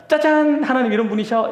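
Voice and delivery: spring the surprise like a magician; hammed-up ta-da reveal; mock reveal. Retelling surprise reveal at banquet.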